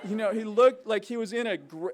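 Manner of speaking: words broken by a real laugh. Real, not acted. Laughing describing KGB man.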